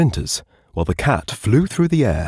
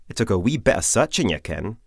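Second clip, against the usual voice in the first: dry Scottish Jamie; 3 semitones higher than usual. Acted. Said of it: "said Jamie dryly".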